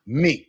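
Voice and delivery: "Me" said with a long pure ee; clear Spanish vowel. Shown as a demonstration. Teacher fixing the student's vowel, "Me" with a clear ee. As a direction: say "Me" with the Spanish i, an ee sound. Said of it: "'cause it's E".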